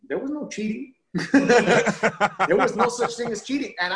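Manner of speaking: words bubbling with laughter, slowed at first; amused laughing insistence. Real, not acted. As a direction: laugh through the boast. Laughing about no cheating.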